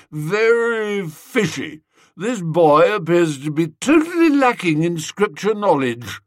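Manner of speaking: a hint of a drunk toff pronouncing doom; Gussie, suspicious. Gussie tells the headmaster it's fishy, lightly voiced tipsy toff.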